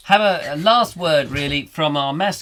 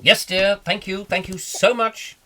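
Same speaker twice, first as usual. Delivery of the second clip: high-pitched, put-on dutiful reply; henpecked husband; 6 semitones higher than usual. Husband answering wife's call, high mock-dutiful reply. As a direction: answer the summons in a raised voice.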